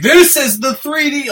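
high, slow, over-obvious presenting voice; mock announcement. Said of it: "it's like".

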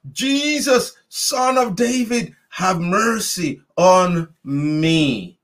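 high-pitched cry to Jesus, slowing on the plea; called out. Retold or imitated. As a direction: reach up high and call across the crowd. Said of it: "He called out".

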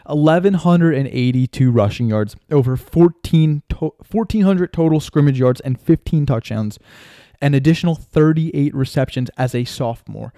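breathless, rushed excitement; winded, talking fast; out of breath. Real, not acted. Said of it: "out of breath right now".

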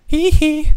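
high, loud falsetto squeal; a pop singer's signature hee hee. Retold or imitated. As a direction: squeal it like a famous pop star. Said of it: "Michael Jackson?".

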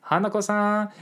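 mock Japanese accent on Hanako-san. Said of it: "throw an accent on there".

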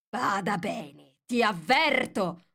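mild mock shout of a furious queen; queen yelling. A narrator's reading. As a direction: bark the warning at her slowly. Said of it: "urlò la regina".

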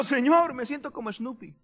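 sighing prayer that sinks very soft; mock depressed. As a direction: drop away glumly, lightly acted. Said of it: "Está deprimido".

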